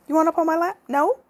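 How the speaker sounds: high, loud sing-song call to a cat; coaxing pet talk. Real, not acted. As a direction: coax the kitty up with a bright high voice. Coaxing cat onto lap.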